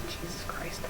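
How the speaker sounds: breathy whispered aside; exasperated whisper. Real, not acted. Reader giving up on the fanfic, whispered. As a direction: mutter it under your breath.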